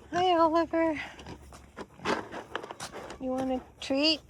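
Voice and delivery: high sing-song pet talk; talking to a dog. Real, not acted. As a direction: coo to the pet. Talking to a dog, pig Oliver.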